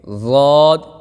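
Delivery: ضاد said full and heavy, medium softness; full heavy dwad. Shown as a demonstration. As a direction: give ضاد a thick, middle sound. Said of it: "نرمی کے ساتھ پڑھنا ہے، لیکن اس سے نرمی کم ہو". (ضاد موٹا، درمیانی نرمی سے)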